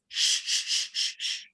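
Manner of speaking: hushed repeated shh; breathy hush to silence the room; shushing. Acted. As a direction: quietly shush them down. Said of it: "cloaked figure just goes".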